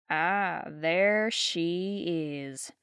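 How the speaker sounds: slow, low, icy drawl of a grand dame; frosty Southern lady. Acted. Geraldine spotting Fiona across the parlor, frosty and slow. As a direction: greet her with cold, lingering disdain. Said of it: "said Geraldine frostily".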